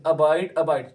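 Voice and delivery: loud repeat-after-me; loud drill. Shown as a demonstration. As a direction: say the word out loud, firmly. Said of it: "जोर से बोलना है".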